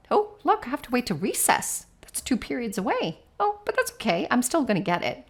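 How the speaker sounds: put-on a child cheerfully resigned to waiting; child accepting. Shown as a demonstration. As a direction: play a kid talking himself into waiting. Child voiced accepting wait.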